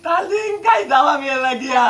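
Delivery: whiny, sobbing demand; tearful whining. Acted. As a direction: cry for it like a pestering child. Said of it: "কান্দিস না রে পুত".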